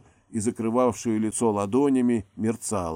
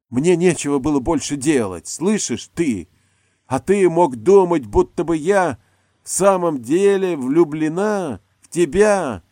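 high, loud, mocking yell; furious scorn; 8 semitones higher, 9 dB louder than usual. A narrator's reading. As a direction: hurl the contempt at him. Actress screaming back in a quarrel.

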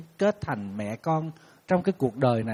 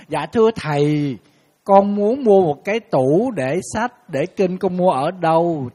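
polite caller; 2 semitones higher, 6 dB louder, slower than usual. Retold or imitated. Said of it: "cứ gọi tới".

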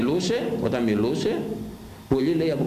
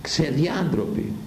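slow condemning word; 2 semitones higher, much slower than usual. Real, not acted. Repeated condemnation, slowed.

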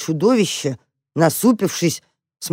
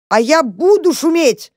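high, loud defiant squeal; yelled; 10 semitones higher, 4 dB louder than usual. A narrator's reading. Mouse Tam yelling defiantly at the dog. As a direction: scream it right back at him. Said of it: "заорал Там".

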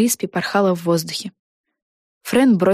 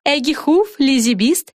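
raised, bright broadcast voice; TV announcer; 6 semitones higher than usual. Acted. Announcer reporting two witches knocked out. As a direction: report it like live TV.

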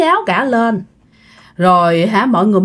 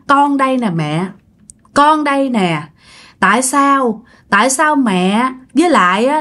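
higher-pitched, lightly acted plaintive reproach; retold tearful spirit; 3 semitones higher than usual. Daughter's spirit asks why family never found her, mildly tearful. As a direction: plead as the hurt daughter, with mild mock tears. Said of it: "nói tới đó là khóc quá trời khóc luôn".

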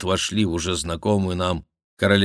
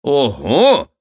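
loud, high startled "Ого"; mock surprise; 8 semitones higher, 10 dB louder than usual. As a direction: feign being taken aback. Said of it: "воскликнул Шико". (наигранное удивление, громко)

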